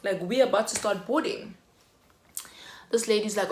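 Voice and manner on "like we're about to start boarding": loud, higher indignant protest; indignant outburst. Retold or imitated. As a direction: demand who she is, louder and higher. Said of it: "I was literally like".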